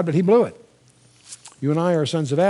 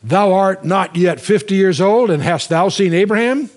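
louder, slow scoffing challenge; a mocking, louder retort; indignant challenge; 2 semitones higher, 4 dB louder than usual. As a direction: read it as the leaders scoffing at him. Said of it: "Then said the Jews unto him".

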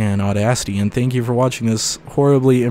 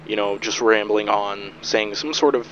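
muffled EQ effect; 5 dB quieter than usual. Shown as a demonstration. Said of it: "so it sounds not very good".

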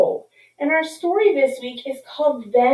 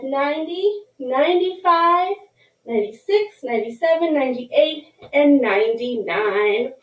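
put-on teaching a child to count. Shown as a demonstration. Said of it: "count our tally marks by fives".

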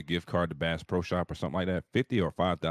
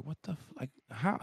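baffled outburst; 9 semitones higher than usual. Retold or imitated. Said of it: "So I'm like".

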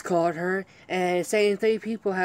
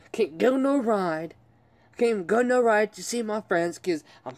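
venting angrily; 4 semitones higher than usual. Real, not acted. Vlogger ranting to his viewers about his life, angry and raised. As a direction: let it boil over, each "no" hit hard. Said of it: "I'm sorry going off".

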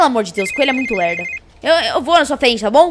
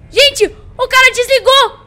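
scared horror game streamer; 7 semitones higher, 4 dB louder than usual. Acted. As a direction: sound spooked by the call. Caller hangs up, group panics. (streamer assustada)

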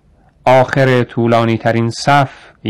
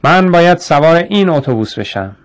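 moderate narrated shout, pitched up; 6 semitones higher than usual. A narrator's reading. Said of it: "جیم فریاد زد".

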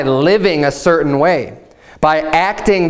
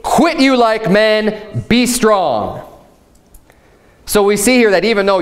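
preaching pitched higher, slowing on key lines; rising preaching; 4 semitones higher than usual. Acted. Pastor exhorting the men of the church, rising preaching fervour. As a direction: build the exhortation to stand firm.

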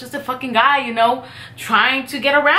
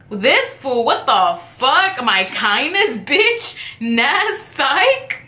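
mock disbelief; 3 semitones higher, much slower than usual. Her reaction to his offer.

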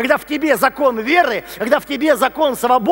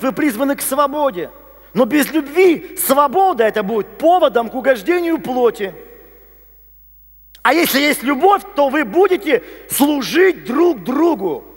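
higher, forceful sermon delivery; emphatic preaching; 4 semitones higher than usual. Acted. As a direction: drive home each key word to the congregation.

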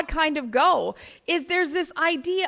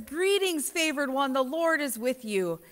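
soft, lilting angel's greeting; poetic angel greeting; 6 dB quieter than usual. Retold or imitated. Mimicking the pretty gospel angel to the congregation, softly lilting. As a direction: make it sound pretty and poetic. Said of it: "the way they say that the angel says".

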